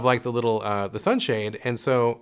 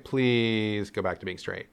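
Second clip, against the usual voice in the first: sighing plea; 4 semitones lower, 6 dB quieter, slower than usual. Retold or imitated. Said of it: "she just kinda sighed".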